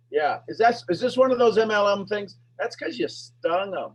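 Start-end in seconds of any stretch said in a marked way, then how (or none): none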